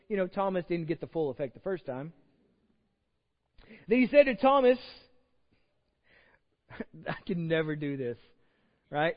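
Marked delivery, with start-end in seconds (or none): 3.9-4.8 proclaimed narration. Acted. Proclaimed scripture line.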